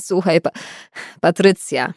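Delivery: a hint of gasping through laughter; choked out. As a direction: stammer it out, barely able to speak. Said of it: "wykrztusił".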